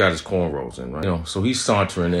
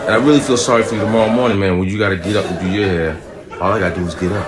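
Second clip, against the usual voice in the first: gloating son; 6 dB louder, faster than usual. Retold or imitated.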